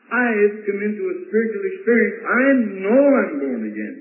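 retold convert's eager testimony; evangelist-like fervour. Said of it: "was pouring it on like an evangelist".

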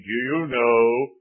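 put-on slow, drawn-out question from an old preacher; old evangelist's bass voice. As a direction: lightly imitate an old evangelist, weighty and slow. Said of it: "he had a very fine bass voice".

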